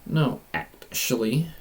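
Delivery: slow, stretched-out "actually"; lingering on each word; drawn-out reply. Acted. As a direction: repeat it slowly, word by word.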